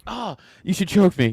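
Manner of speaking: Missus Claus. Retold or imitated. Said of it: "she's like".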